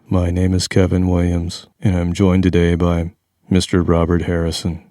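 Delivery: smooth monotone radio host; steady, flat DJ intro read; college DJ voice. Pretend. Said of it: "Are, are we talking in monotone".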